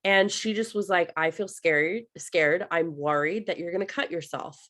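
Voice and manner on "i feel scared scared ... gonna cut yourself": calm, even retold statement; understated, composed mother's voice. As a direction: state the worry without alarm. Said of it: "she said it so calmly".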